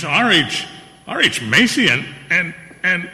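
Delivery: sputtering disbelief. Acted. Macy sputtering at the idea of posing with Gimbel, stammering. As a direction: trip over the words in shock.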